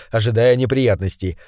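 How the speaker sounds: ordinary delivery, nothing marked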